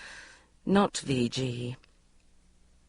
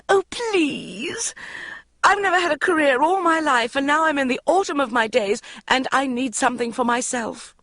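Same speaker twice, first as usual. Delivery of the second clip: gabbling; 10 semitones higher than usual. A narrator's reading. Mother begging Bridget to appear, high gabbled plea. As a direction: rattle it off like a cue card. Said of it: "she gabbled".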